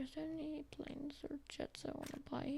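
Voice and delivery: fast whispered question to himself; whispered, musing aside. Real, not acted. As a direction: mutter it while browsing the shop. Whispers while browsing.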